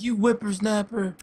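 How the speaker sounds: drawn-out mock scolding from an old-timer; mock old guy. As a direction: play a crotchety old man, stretched out. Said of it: "he's this old guy".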